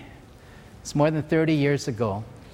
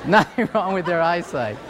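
laughing; 3 semitones higher than usual. Real, not acted. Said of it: "repeats punchline laughing".

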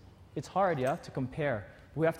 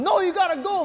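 much higher, loud, laughing; mock pep talk; 13 semitones higher, 7 dB louder than usual. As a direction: push yourself in a squeaky voice. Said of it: "And I'm like".

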